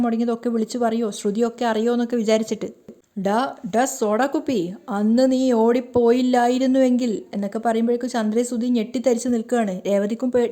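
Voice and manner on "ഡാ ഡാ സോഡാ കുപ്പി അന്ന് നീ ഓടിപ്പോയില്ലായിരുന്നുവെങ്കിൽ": put-on slow, slurred drunken jeer, dragging അന്ന് out; drunken taunt. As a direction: lean into the drunk's threat, slowly. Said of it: "കള്ളിൽ പറഞ്ഞുകൊണ്ടിരിക്കുകയാണ്". (പതുക്കെ, കുഴഞ്ഞ മദ്യപന്റെ പരിഹാസം)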